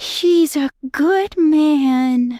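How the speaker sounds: very high, sugary, smooth, sweet voice. The robed one, after a little dance and a gentle clap, in a sweet, smooth high-pitched voice. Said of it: "saying in a very sweet and smooth high-pitched voice".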